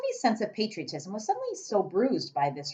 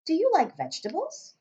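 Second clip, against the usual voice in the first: put-on little girl voice; 11 semitones higher than usual. Sophie's voice.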